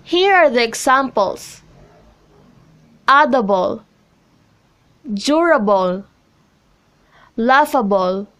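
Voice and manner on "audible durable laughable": AUDible, DURable, LAUGHable, opening syllable stressed; stress before suffix. Shown as a demonstration. Teacher reads examples Audible, durable, laughable, each stressed before the suffix. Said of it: "on a syllable right before the suffix".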